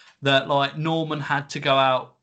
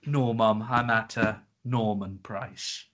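put-on disappointed child; 4 semitones lower, slower than usual. Acts a let-down child answering Mum.

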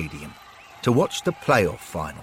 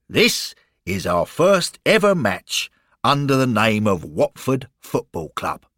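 lightly voiced, emphatic tour guide; Arthur the proud guide; 4 dB louder than usual. Guide showing Lloyd the club's first match, proud. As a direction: announce it proudly, a little louder.

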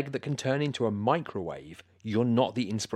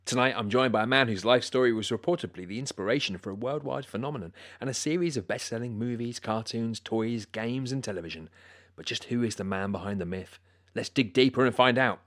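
radio host intro; 3 dB louder than usual. Acted.

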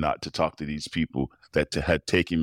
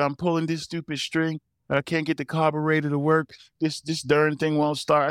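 put-on frustrated old dad; 10 semitones higher than usual. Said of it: "He said".

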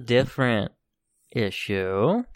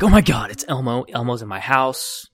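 put-on excited child; 5 dB louder than usual. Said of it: "she'd probably wake up like".

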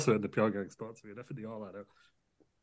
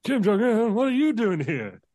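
surprised; 10 semitones higher, 4 dB louder than usual. Acted. S0 voices Biden surprised.

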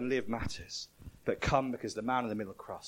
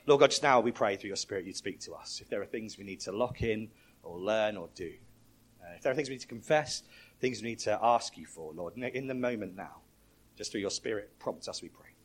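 closing prayer. Acted.

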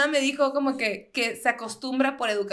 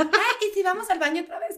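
whiny bored friend; 6 semitones higher than usual. Retold or imitated. Mocking a bored friend at party.

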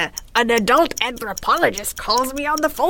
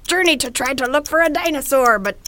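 pirate voice; 4 semitones higher, 6 dB louder than usual. Pretend. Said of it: "So, pirate voice".

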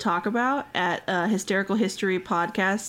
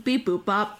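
robot beeps. Pretend. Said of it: "Back to robots".

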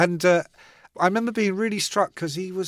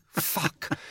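whispered curse; 6 dB quieter than usual. Retold or imitated. Mutters to himself while waiting.

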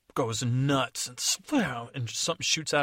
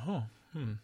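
higher doubtful fairy voice; a lightly voiced fairy testing him; Tooth Fairy; 4 semitones higher than usual. Fairy quizzing the gnome, lightly doubtful. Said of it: "And she said".

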